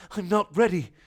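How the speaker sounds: high, loud panicked protest; squeaky flustered cry; flustered exclamation. Acted. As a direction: blurt it out high like a nervous castle. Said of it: "Hogwarts exclaimed".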